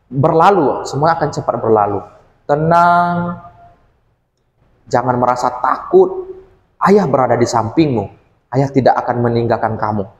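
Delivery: a father holding his scared son close; soothing father. Acted. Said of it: "Dan ayahnya bilang". (ayah menenangkan dengan lembut sambil memeluk)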